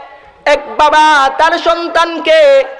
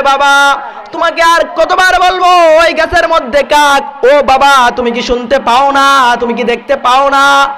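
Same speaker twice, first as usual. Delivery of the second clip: put-on son snapping at old father, raised; angry scolding. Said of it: "রাগান্বিত হয়ে বাবাকে ধমক দিয়ে বলে". (রাগান্বিত ছেলের ধমক)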